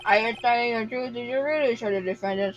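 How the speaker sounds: talking while eating; words around a bite of food; mouth full. Real, not acted. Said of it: "Sorry, I'm eating".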